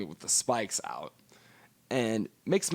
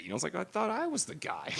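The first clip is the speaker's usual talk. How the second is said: mock hurt; 10 semitones higher, 5 dB quieter than usual. Real, not acted. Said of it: "kinda hurt a bit".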